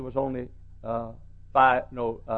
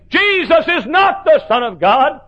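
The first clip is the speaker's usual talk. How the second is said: higher, slow, laughing mock quote; mocking the liberal preacher; 12 semitones higher, 6 dB louder, slower than usual. Pastor retelling the liberal preacher, laughing mockery. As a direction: ridicule his words while laughing. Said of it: "the missionary would say".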